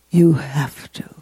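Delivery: urgent whisper. Real, not acted. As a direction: whisper it as a secret truth. Whispered insistence in the sermon.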